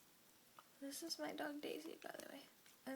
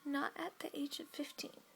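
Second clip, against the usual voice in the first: whispering; 3 dB louder than usual. Real, not acted. Whispers throughout.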